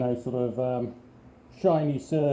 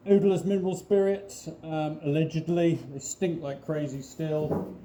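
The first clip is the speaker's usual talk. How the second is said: muffled behind a respirator mask; through a respirator. Real, not acted. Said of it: "my voice sounds so funny is I've got a respirator on".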